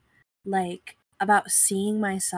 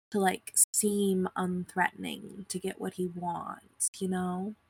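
vocal fry; 4 dB quieter than usual. Real, not acted. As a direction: let the voice crackle into fry. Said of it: "the vocal fry is coming out".

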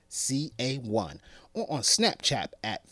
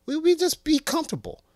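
high loud fast gush; excited; 6 dB louder, faster than usual. Real, not acted. Dreaming aloud about comfortable men, excited high gush.

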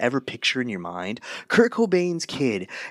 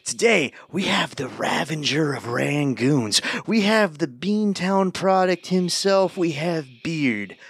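announcer voice; slower than usual. Acted. Podcast intro announcing guest.

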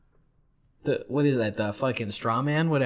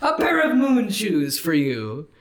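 squeaky jack-in-the-box voice; high bouncy toy character; 6 semitones higher, 4 dB louder than usual. Acted.

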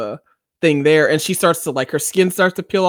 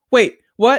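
confused surprise; 8 semitones higher, 5 dB louder than usual. Retold or imitated. Confused by cliffhanger.

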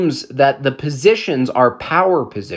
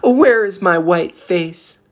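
slow, dreamy mock wonder; slow, mock-puzzled musing; mock wondering girl; 3 semitones higher, slower than usual. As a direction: drag it out like a puzzled child. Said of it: "She's just wondering".

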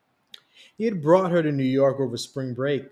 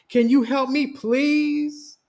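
higher, louder pleading exclaim; acted exclaim; 12 semitones higher, 6 dB louder, slower than usual. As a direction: beg her cousin loudly, mock urgent. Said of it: "Denisha exclaimed".

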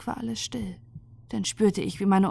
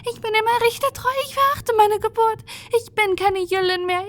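very high, louder frantic pleading; desperate weaver; 14 semitones higher, 3 dB louder than usual. Acted. Ninvini begs Ynira, renouncing her birth, high frantic plea. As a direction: disown your own people in panic.

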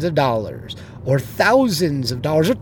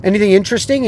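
first-date small talk; 7 semitones higher, faster than usual. Retold or imitated. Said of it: "I said".

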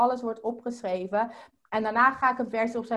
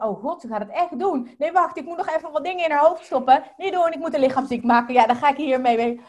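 hurried louder ego voice, a hint of panic; voicing her ego; 3 semitones higher, 5 dB louder, faster than usual. Her ego panicking as she gets going, fast and louder. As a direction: rattle it off like a nervous inner critic. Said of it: "want die denkt".

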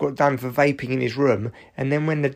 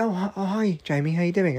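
higher-pitched, mildly polite hello; polite boy; 5 semitones higher than usual. Acted. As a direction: imitate a well-mannered kid greeting an adult. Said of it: "he's very, like, polite".

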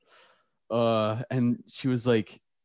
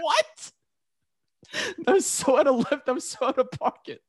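very high, squeaky disbelief; incredulous. Retold or imitated. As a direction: protest way up high, scandalized and amused. Laughing disbelief at teacher's insult.

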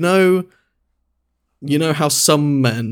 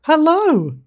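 cooing at a cat; 13 semitones higher, slower than usual. Real, not acted. Still cooing toward the cat.

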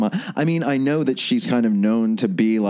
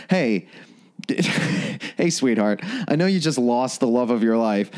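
smug boss voice; 5 semitones higher than usual. Retold or imitated. Voicing the smug SWORD director.

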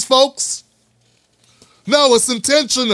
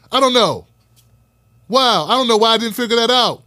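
sarcastic. Real, not acted. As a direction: fake amazement to ridicule the critic. Mocking a white critic.

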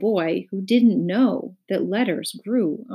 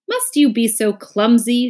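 raised, higher, louder voice; shouted reproach; 4 semitones higher, 7 dB louder than usual. A narrator's reading. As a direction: scold with a restrained shout. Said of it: "shouted the duke".

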